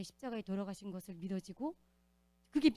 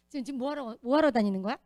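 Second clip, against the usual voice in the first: suspicious demand; 2 semitones higher, 9 dB louder than usual. Retold or imitated. Quoting the woman's suspicious question.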